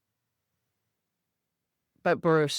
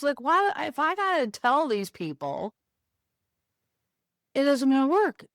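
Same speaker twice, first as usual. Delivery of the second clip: exasperated rant; 3 semitones higher than usual. Retold or imitated. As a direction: throw the questions back, fed up. Retelling her own frustrated outburst.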